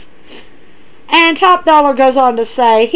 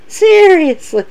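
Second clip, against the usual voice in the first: high exasperated; 7 semitones higher, slower than usual. Shown as a demonstration. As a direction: throw it up high in disbelief.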